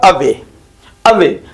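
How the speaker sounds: अवे with a light A and stressed WAY; stress on second syllable. Shown as a demonstration. Teacher showing weak then strong beat, stressing WAY. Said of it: "अवे को धीमे बोला जाता है".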